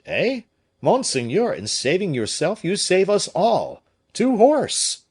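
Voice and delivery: high, loud rallying call; urgent shout. A narrator's reading. Pelisson urges his master to flee, in an urgent shout. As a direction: push him out the door.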